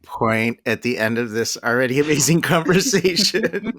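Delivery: loud, high and delighted; thrilled outburst at a wild story; excited. Real, not acted. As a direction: gush with real excitement.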